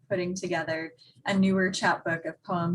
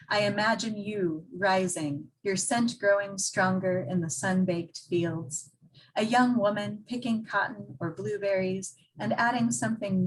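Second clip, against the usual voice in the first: measured poem recital with pauses between phrases; deliberate, evenly phrased verse reading; poetry reading. Acted. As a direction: read your poem to an audience, line by line. Reads own poem aloud.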